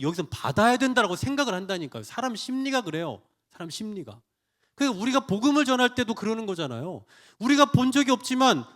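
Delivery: ordinary talk, nothing marked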